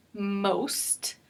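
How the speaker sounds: "most" with the O saying its name; long O. Shown as a demonstration. Teacher giving an example word, "most" with long O. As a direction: set "most" apart with a clear long O. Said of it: "you can hear that the O also says its name".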